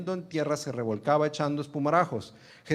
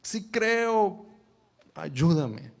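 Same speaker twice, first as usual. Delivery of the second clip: higher "Sí creo", urgent; crying out; 4 semitones higher, much slower than usual. Acted. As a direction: plead with all your heart. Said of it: "el papá dice". (el padre clamando, más agudo)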